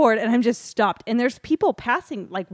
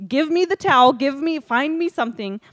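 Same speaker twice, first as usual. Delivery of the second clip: louder, frantic orders; urgent demand; 6 semitones higher, 7 dB louder than usual. Retold or imitated. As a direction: bark for the towel in a hurry. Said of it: "And I said".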